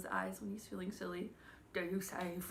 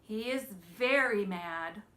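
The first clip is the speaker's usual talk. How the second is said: mad; 6 dB louder, much slower than usual. Shown as a demonstration. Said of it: "this one".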